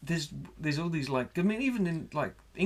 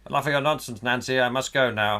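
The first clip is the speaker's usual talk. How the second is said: mock wartime husband; 6 dB louder than usual. Continues wartime film parody.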